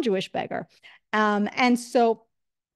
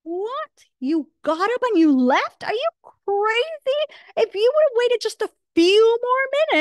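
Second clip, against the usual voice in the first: high, louder, disbelieving outburst; incredulous disbelief; 6 semitones higher, 4 dB louder than usual. Retold or imitated. Beggar scolding his friend for leaving before the meal, high and incredulous. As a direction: cannot believe he walked out. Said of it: "the Jewish beggar says".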